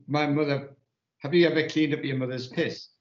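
a hint of a Welsh accent, pitch a little up; lightly imitating a mad Welsh woman with a Welsh accent. Retelling a TV scene, mad Welsh woman scolds in a Welsh accent. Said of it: "In a proper Welsh accent".

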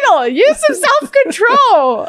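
high, slow, scolding reminder; scolding Michael. Retold or imitated. Wife chiding husband over junk food, high and scolding. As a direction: lecture him like a fed-up wife. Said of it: "And I'm like".

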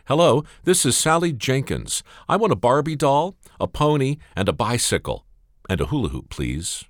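put-on a small child reciting her wish list; little girl voice. Little girl phones Santa.

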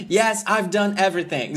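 high, loud mock delivery; hammed-up Divine quote; imitating Divine's line. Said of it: "O jeito que o cara".

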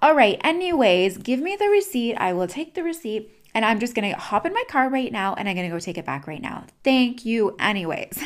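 mock indignant outburst; getting mad. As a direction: play-act an irritated customer storming off. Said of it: "now you're getting mad".

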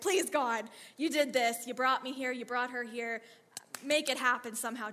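loud, insistent plea to God; acted urgent prayer in short bursts; urgent pleading prayer. Acted desperate improvised prayer.

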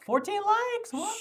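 high, loud disbelief; surprised. Real, not acted. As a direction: fourteen likes, really?. Shocked at fourteen likes.

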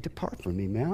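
a hint of a scornful young punk; preacher voicing Jesus as a punk. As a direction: toss it off with a sneer. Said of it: "Sorry for the inflection of my voice".

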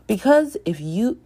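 tentative first read of the line; a botched start, reset quickly; dropped read; false start reading. Shown as a demonstration. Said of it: "that was kind of terrible".

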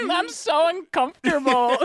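high nervous-laugh voice; lightly played uncomfortable 1920s woman. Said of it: "in their heads, they were probably like".

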